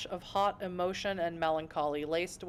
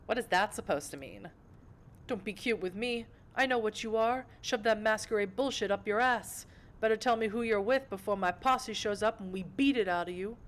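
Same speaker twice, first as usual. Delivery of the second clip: lightly voiced street thug, a little higher; Brujah tough; 4 semitones higher than usual. Hooded Brujah challenges intruder on his turf, lightly voiced tough guy. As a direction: put on a mild gang-tough threat. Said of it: "I don't know why I'm talking like this".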